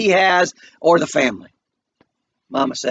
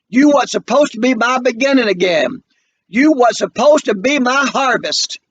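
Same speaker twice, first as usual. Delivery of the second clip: grieving mother; 5 semitones higher, 3 dB louder than usual. Acted. Mama grieves, then confronts.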